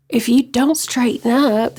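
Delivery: slow, lightly imitated maternal warning; mother's warning. Mother warning her wayward child, imitated slow warning. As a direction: mimic a mother's deliberate, measured threat. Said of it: "this way she said it too".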